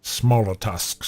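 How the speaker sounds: lightly voiced orc, words drawn out. Shown as a demonstration. Game master suggests smaller tusks, slow orc voice. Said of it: "so he doesn't have to speak like this".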